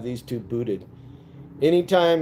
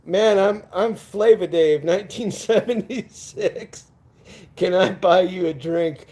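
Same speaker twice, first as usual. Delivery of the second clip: sleazy disco pickup; 3 semitones higher than usual. Retold or imitated. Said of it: "elbowed you and go".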